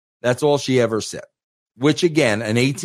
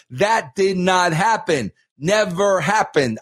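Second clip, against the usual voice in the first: firm, emphatic denial; insistent; 3 semitones higher than usual. Retold or imitated. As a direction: deny it flat out, no doubt. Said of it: "I am going to tell you vehemently and adamantly".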